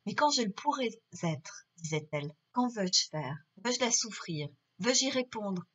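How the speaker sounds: measured reading of a classic monologue, lightly dramatised; literary reading aloud. Acted. Teacher reading a novel extract to students, understated literary reading. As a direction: read out the self-questioning heroine with restraint.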